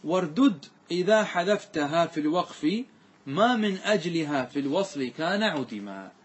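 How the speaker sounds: slow, measured recital of a grammar verse; measured verse reading; verse recitation. Shown as a demonstration. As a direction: recite the didactic line slowly, drawing out long vowels. ثم قال.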